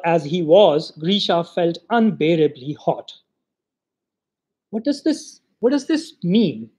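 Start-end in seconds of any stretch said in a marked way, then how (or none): 4.7-6.7 put-on puzzled child. Grisha wondering to himself in the hot kitchen, bewildered. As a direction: ask yourself, baffled. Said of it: "he asked himself".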